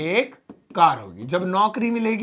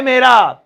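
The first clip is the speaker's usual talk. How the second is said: "मेरा" barked out louder; stress on मेरा; 2 semitones higher, 6 dB louder, much slower than usual. Shown as a demonstration. Teacher stressing मेरा for the class. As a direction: punch the word मेरा. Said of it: "तो जोर देके, force देके".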